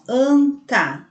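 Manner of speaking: "anta" drawn out in two beats, AN-TA; sounded-out word. Shown as a demonstration. Teacher showing pupils the same sound, "anta" sounded out slowly. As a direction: stretch "anta" slowly, letting the nasal AN ring. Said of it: "sendo que o som é o mesmo".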